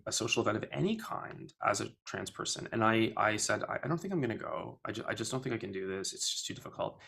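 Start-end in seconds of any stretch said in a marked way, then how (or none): 3.6-7.0 quiet, fast, nervous backing out, fading to a near whisper; scared refusal. Retold or imitated. To her trans friend before the gala, quiet and fast. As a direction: talk yourself out of going, softly and quickly. Retelling own fearful refusal.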